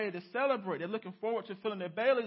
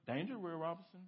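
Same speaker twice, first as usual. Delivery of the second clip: robot warning. Retold or imitated. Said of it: "the robot has to tell him".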